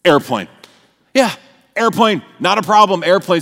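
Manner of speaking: a laughing realisation it was only a plane; relieved laughing. Retold or imitated. Relief at seeing the airplane.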